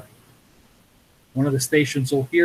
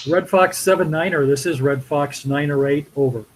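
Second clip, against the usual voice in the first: radio call. Shown as a demonstration. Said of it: "I'm gonna make a sample call".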